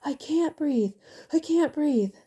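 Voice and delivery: screamed. A narrator's reading. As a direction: scream it out in blind panic. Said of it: "he screamed out".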